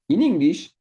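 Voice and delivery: "In English" punched high and loud; emphatic contrast. Shown as a demonstration. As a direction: stress "In English" to set it against French. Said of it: "contrasting French and English".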